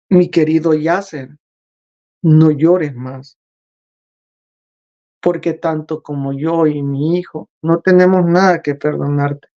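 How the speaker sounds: a hint of a calm, powerful father speaking; understated voice of the Creator; mild divine voice. The Creator's imposing yet gentle voice.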